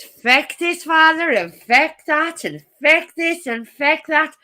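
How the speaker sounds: ranting Irish housekeeper. Retold or imitated. Quoting housekeeper complaining about dirty book, indignant rant. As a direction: hammer each FECK indignantly. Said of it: "his housekeeper telling her".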